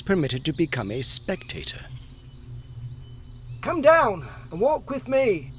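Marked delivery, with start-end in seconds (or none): 3.6-5.5 put-on high, eager call up to the girl; young fellow calling out. A narrator's reading. Young driver calling up to the girl on the hay, eager. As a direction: call her down from the hay cart. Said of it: "cried the young fellow".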